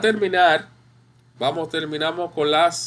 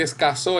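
"escaso" said as escasÓ, stress on the last O; end-stressed "escaso", es-ca-SÓ; stress on final syllable; 2 semitones higher than usual. Shown as a demonstration. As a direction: say "escaso" like a past-tense verb, es-ca-SÓ. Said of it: "Pero en este caso es escaso".

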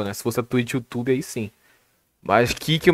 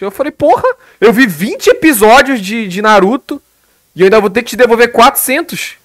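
higher, laughing in disbelief; indignant outburst; 6 semitones higher than usual. Retold or imitated. Streamer retells refusing the viewer's refund demand, indignant laughing outburst. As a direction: scoff at the outrageous demand, half laughing.

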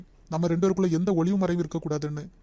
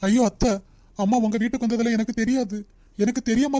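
alarmed protest; 3 semitones higher, 3 dB louder than usual. Acted. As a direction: plead he knew nothing. Son-in-law protests innocence. (பதறிய மறுப்பு)

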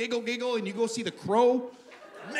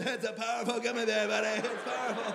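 fan's warning; 2 semitones higher, 4 dB quieter than usual. Retold or imitated. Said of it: "I remember the guy saying".

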